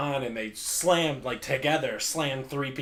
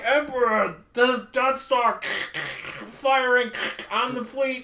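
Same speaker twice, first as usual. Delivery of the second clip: mock panic; 9 semitones higher, 3 dB louder than usual. Panicked officer on video call.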